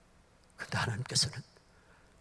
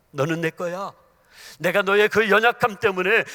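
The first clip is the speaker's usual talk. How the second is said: God's loving declaration; 5 semitones higher, 14 dB louder than usual. Acted. God speaking to believers, building to loud assurance. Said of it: "하나님은 이렇게 말씀하십니다".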